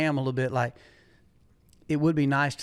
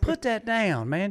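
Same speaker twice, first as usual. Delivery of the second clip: exasperated scolding; 7 semitones higher, slower than usual. Retold or imitated. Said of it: "I'm like".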